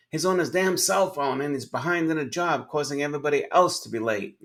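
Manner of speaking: the fuming manager vents to the consultant, in a hammed-up angry voice; mock angry complaint. Mock angry complaint.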